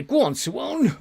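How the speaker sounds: high, loud shout to a player; excited urging. Real, not acted. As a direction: cheer the player forward.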